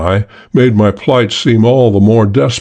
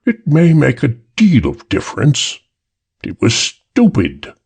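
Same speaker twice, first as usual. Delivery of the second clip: drawling British voice; 5 semitones higher than usual. A narrator's reading. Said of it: "The drawling British voice".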